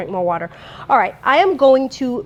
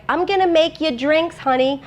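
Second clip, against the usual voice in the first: lightly imitated Brooklyn accent, pitched up; higher-pitched, playful hint of Brooklyn; 6 semitones higher than usual. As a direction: put on a touch of doting Brooklyn mom. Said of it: "with her little Brooklyn accent".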